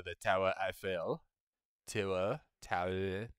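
TOWER EIFFEL said as a rough French "tour Eiffel"; French pronunciation. Acted.

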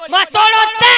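put-on lisping girl.

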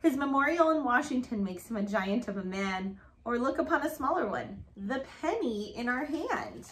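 rhythmic picture-book read-aloud; reading to children. Acted. Reading a rhyming alphabet book to Grace, sing-song read-aloud.

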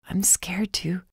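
soft unvoiced whisper, fragile; scared whisper. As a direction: confess fear in a breath. Dying Jack admits fear.

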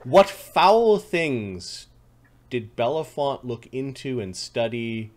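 slow, drawn-out dramatic narration; ominous game master. Acted. Game master teases what was studied in the bedchambers, ominous. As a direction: draw it out with dark, theatrical relish.

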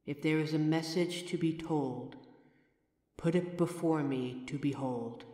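soft, hushed spell-casting chant; hushed séance chant with a measured rhyming cadence; quiet ritual incantation. Acted. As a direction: call the spirit in low and quiet, like a rite. Performs a ritual summoning incantation.

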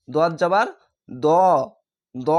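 দ as a heavy "do", no "aa"; heavy rounded vowel. Shown as a demonstration. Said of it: "এখানেও আকার উচ্চারণ হচ্ছে না". (দ, আকার ছাড়া মোটা উচ্চারণ)

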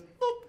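mock card beep. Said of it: "That's the sound it makes".

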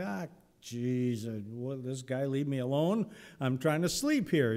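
woken up and irritated; grumpy sleepy grumble. Pretend. Eli grumbling when woken.

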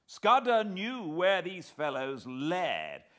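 high, loud, excited shout. A narrator's reading. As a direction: shout the discovery at them. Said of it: "I shouted".

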